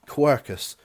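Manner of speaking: West Country r in quercus; West Country accent. Real, not acted. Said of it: "with my West Country accent".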